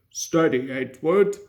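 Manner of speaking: driver steadies his engine; cautioning. A narrator's reading. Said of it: "cautioned his driver".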